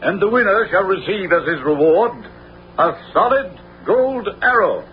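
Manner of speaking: proclamation. Acted. Sheriff proclaims contest to townsfolk.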